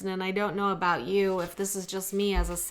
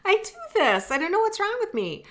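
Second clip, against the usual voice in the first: much higher, laughing through tears; tearful laughing; 12 semitones higher than usual. Real, not acted. Embarrassed before viewers as tears come, high tearful laugh. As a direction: laugh at yourself while welling up, pitch jumping up. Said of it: "I'm gonna get emotional".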